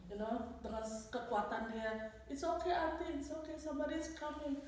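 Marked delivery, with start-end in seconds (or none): 2.3-4.6 put-on higher, soothing little-girl voice; calming child. Little girl calming her stricken auntie, soothing. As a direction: gently reassure as a small child would. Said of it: "and then calm me down".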